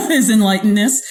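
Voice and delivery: laughing as she repeats it; amused laughing. Real, not acted. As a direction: echo the phrase through a chuckle. Amused echo of guest's phrase.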